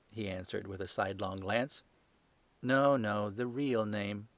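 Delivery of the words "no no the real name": sweetly. Acted. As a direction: gently call the bluff. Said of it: "said Holmes sweetly".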